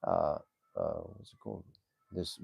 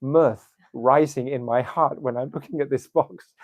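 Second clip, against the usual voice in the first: mischievous delight; 3 semitones higher, 3 dB louder than usual. Acted. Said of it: "She's feeling this ecstatic, um, mischiefness".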